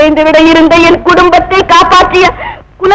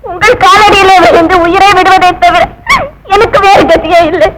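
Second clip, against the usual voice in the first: tearful plea; 2 semitones higher than usual. Acted. Wife begging for husband's life.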